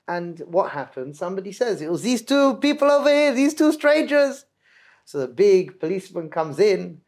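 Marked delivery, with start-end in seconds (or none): 1.8-4.4 accusing shout. Retold or imitated. Inn guest yelling accusation at the two strangers, loud.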